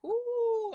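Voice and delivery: high, held "ooh"; empathic ooh. Retold or imitated. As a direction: pick up someone's feeling with an ooh. Acts out absorbing someone's emotion.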